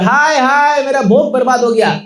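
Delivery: lament. Acted. ब्राह्मण फिर भोग खोकर विलाप.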